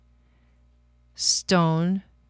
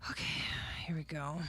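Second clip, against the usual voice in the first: whispering; 13 dB quieter, faster than usual. Real, not acted. Starting the draw, hushed.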